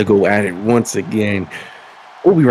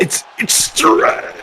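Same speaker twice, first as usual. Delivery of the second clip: high squeaky voice; much slower than usual. Pretend.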